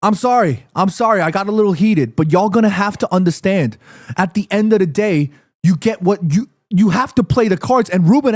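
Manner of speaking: low-pitched, composed explaining; calmed-down apology. Real, not acted. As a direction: come down and apologize, reasoning with them. Apologizes after getting heated.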